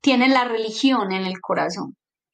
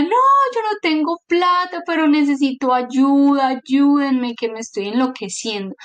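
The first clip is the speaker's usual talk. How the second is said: retold desperate yelling; 3 semitones higher than usual. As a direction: re-enact a frantic plea for help, half-shouted. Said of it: "yo empecé a gritar y yo decía".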